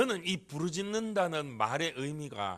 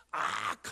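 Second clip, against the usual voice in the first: retold scream; 6 semitones lower, much slower than usual. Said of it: "하면서 비명을 질렀어요".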